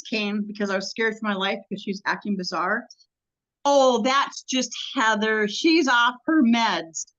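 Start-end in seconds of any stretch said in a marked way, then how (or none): 3.6-7.1 dismissive deputy. Retold or imitated. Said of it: "That's what they said".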